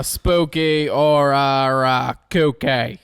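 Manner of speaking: attempted Boston accent. Shown as a demonstration. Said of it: "I lost it at the end".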